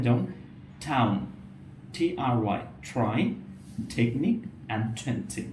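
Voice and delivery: টাউন said with a breathy ঠ; aspirated t demo. Shown as a demonstration. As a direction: aspirate each টি word. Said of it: "এই ঠ sound আপনি যদি try".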